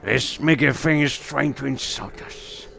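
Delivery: talking sword that slows and drops as it urges violence; hushed, slowing menace from a sword; whispering sword. Acted. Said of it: "hear a sword whispering to you".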